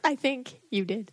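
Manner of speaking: "I think you did" drawn out slowly; slow insistence. Real, not acted. Insists after partner's denial.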